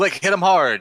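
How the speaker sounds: high, loud rallying battle yell. Calling to Flick in character during the fight: yelling. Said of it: "just yell".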